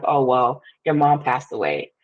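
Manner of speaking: casually imitating an unbothered cousin; nonchalant. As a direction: retell bad news as if it were nothing. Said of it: "He so nonchalantly was like".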